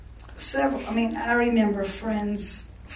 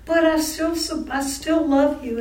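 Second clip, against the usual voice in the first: higher, louder mock plea; sister-in-law insisting; 5 semitones higher, 4 dB louder than usual. Sister-in-law on phone insisting she still loves her, mock sweet. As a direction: imitate her pleading insistence. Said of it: "She said".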